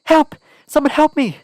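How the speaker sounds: high, loud desperate call; crying for help. A narrator's reading. Heroine fleeing the knifeman, calling loudly for help. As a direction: scream for help while fleeing. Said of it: "I cried".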